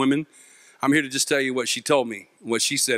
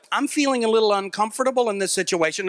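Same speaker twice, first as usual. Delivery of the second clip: put-on mild unease, pitched up; mildly uncomfortable; 5 semitones higher than usual. Comedian mimicking someone only slightly scared, mock mild unease. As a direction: play down the fear in a mock-polite voice. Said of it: "I'm not talking scared like".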